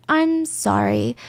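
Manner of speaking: slow, studied sorry with a rising end; rehearsed apology. Retold or imitated. Suspect practising versions of sorry, slow and studied. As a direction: test the cadence slowly, not feeling it. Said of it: "overly analyzing their own cadence".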